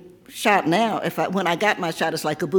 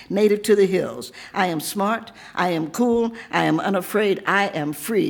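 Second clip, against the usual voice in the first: measured, rhythmic poetry reading; poem reading. Acted. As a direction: read it like a performance poem. Reads her poem aloud.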